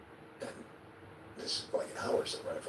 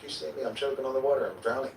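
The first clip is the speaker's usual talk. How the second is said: retold yelling; 7 semitones higher, 4 dB louder than usual. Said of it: "I'm screaming, I'm yelling".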